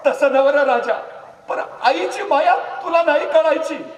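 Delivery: high, loud scolding of a village mother; an old mother's loud, high rebuke. Acted. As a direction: chide him loudly like a mother. Mother scolding Raje tenderly.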